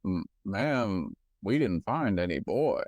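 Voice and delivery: lightly voiced cop, a little low. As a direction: play a lawman answering a survivor. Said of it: "Okay, I'll be the cop".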